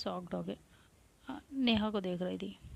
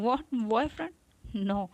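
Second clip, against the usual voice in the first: incredulous; 2 semitones higher, 5 dB louder than usual. Acted. Avantika hearing about the boyfriend, loudly incredulous. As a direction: refuse to believe it. Shocked reaction to boyfriend news.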